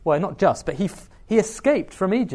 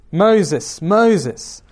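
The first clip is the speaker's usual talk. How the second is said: louder call, each name falling; 6 dB louder than usual. Acted. God calling to Moses from the burning bush, louder.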